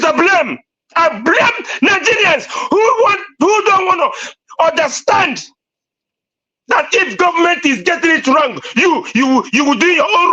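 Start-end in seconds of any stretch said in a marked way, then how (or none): 1.0-5.4 impassioned cry. Real, not acted. Angry rant about blame.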